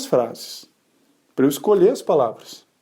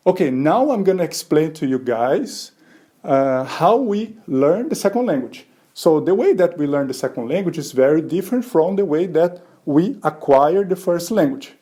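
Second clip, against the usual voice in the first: slow learner English; slower than usual. Shown as a demonstration. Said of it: "eu vou falar um pouquinho".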